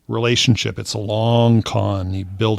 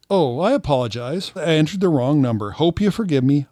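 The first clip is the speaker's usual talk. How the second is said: higher-pitched mock-polite apology; apologetic stranger; 6 semitones higher than usual. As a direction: play a sorry scammer, lightly raised voice. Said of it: "She says".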